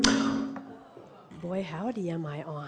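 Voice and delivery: booming over a hot mic; loud, mic turned way up. Real, not acted. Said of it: "I've never been that loud in my whole life".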